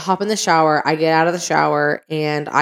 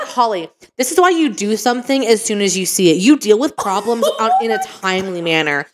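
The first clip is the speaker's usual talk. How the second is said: scolding lecture; 4 semitones higher than usual. Retold or imitated. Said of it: "disciplining myself about it".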